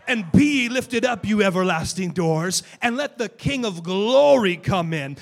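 loud fervent preaching shout. Acted. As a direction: preach it at full force to the crowd. Preaching at full force.

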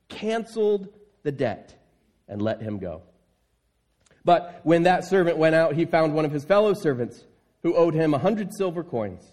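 measured Bible reading to the congregation; scripture reading. Acted. Pastor reading the parable to the church, measured scripture reading. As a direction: read the parable to them, steady and clear.

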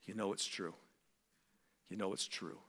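low, soft, hushed inner voice; God's gentle prompting. Acted. God knocking at the listener's heart, gentle prompting. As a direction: drop low and soft, as a quiet nudge. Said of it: "Is he knocking on your door this morning and saying".

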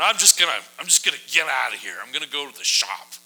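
typical guy bailing. Retold or imitated. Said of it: "typical guy".

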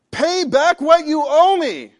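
loud, slow, high demand; demanding shout. Acted. Servant shouting at debtor, loud and slow. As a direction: bellow it like a harsh creditor. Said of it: "he demanded".

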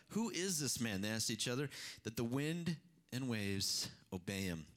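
steady, measured Bible reading to the congregation; scripture reading. Acted. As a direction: read the passage out to the church, even-paced. Preacher reads Mark scripture aloud.

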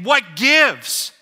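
put-on older brother complaining about the party; indignant older brother. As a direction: demand to know where his own party is. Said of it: "I could imagine the older brother saying".

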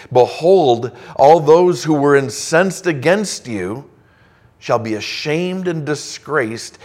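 loud proclaiming scripture voice; preaching at full force. Acted. Preacher reading God's word to the congregation, proclaiming loudly. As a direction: thunder out God's promise of victory.

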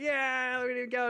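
high, loud cheer. Retold or imitated. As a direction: cheer him down the slide. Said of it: "we're all cheering".

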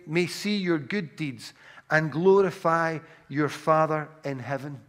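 ordinary delivery

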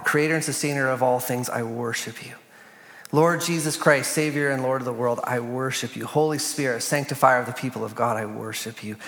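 measured liturgical prayer, read aloud. Acted.

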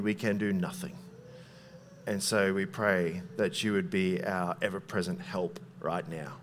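soft, hushed pastor's prayer. Acted. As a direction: pray humbly and quietly before the sermon. Opening prayer before sermon.

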